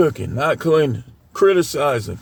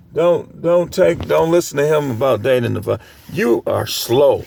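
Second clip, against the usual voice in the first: mocking quote of the dude; 5 semitones lower than usual. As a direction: repeat the dude's advice with light mockery. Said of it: "this dude came on there and said".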